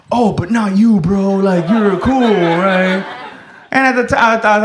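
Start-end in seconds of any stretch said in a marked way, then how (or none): 0.1-3.0 lightly acted, hasty reassurance to a friend; mildly raised voice, smoothing it over; mock backpedaling. Friend reacting to the comic's reaction, mock backpedaling. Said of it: "he saw my reaction and he goes".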